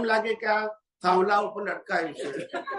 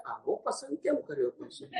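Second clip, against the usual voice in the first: softer, hushed question to a friend; quiet aside; 3 semitones higher, 8 dB quieter than usual. Retold or imitated. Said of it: "ધીમે કે છે". (ધીમેથી પૂછેલો પ્રશ્ન)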